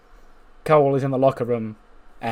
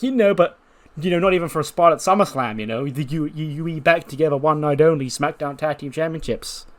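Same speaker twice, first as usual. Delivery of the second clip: eager plea; 3 semitones higher than usual. Acted. Cole pleading with Roddy.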